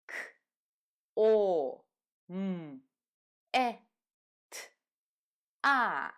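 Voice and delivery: "K, O, M, E, T, A" as isolated sounds; sounding out letters. Shown as a demonstration. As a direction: give each of "K, O, M, E, T, A" alone, long pauses between. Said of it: "name the sounds that these letters".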